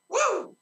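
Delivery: high excited whoop. Real, not acted. Preacher whooping with joy at the revelation. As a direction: let out a joyful whoop.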